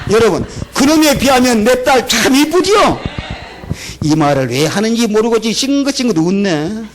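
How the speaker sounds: ordinary talk, nothing marked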